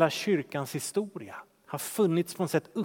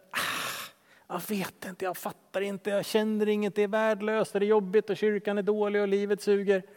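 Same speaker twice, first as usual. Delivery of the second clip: weary complaint; 3 semitones higher than usual. Retold or imitated. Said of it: "tron känns lite så här".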